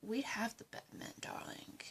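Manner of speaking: conspiratorial whisper; plotting whisper. Acted. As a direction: breathe it to your accomplice.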